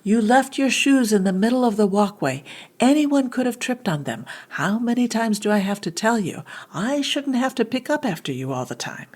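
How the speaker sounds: angry parent. Acted. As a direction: play the fed-up parent nagging their child. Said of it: "I'll be an angry parent".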